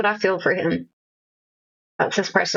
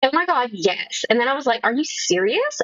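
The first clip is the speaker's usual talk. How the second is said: put-on valley girl voice; 5 semitones higher than usual. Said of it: "sassy or fancy".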